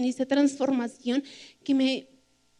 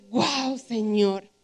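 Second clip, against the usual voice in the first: slow, low, softer wow; hushed awe; 3 semitones lower, 3 dB quieter, much slower than usual. Retold or imitated. Telling the congregation how Paul's story struck her, hushed awe. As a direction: let it sink in slowly, in awe. Retells her awed reaction on understanding.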